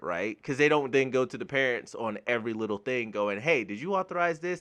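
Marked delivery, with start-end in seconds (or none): 3.4-4.6 lightly voiced, a bit higher pestering query; mock accountant nagging. Accountant pestering the parents, lightly voiced higher nagging. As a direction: pester them a little, half-mocking.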